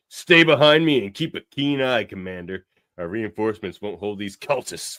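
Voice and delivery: booming order to stay close; loud commanding Shaxx. Retold or imitated. Retelling Shaxx ordering the commander, loud command. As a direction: bark it like a war commander. Shaxx voiced in retold comic.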